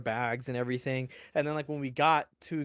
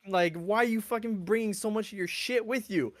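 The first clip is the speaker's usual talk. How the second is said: higher mocking rant; mocking sergeant; 5 semitones higher than usual. Sergeant berating a recruit about his bag, mock rant. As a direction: berate the overpacker. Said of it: "they'd be like".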